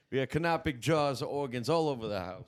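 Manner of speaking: put-on childish high voice about mummy; Luca Ferro impression. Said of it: "Do you like my Luca Ferro impression?".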